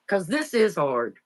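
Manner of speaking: fighting back tears, voice tight; holding back real crying, reaching for a tissue; close to tears. Real, not acted. Telling the interviewer about leaving home, near tears. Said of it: "God, I'm gonna cry again".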